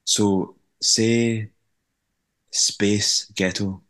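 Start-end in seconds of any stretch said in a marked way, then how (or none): 2.5-3.8 slow, deliberate Scottish pronunciation; teaching a Scottish accent word by word; Scottish accent demo. Shown as a demonstration. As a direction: say "Space Ghetto" slowly in a Scottish accent. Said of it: "give you the perfect Scottish accent".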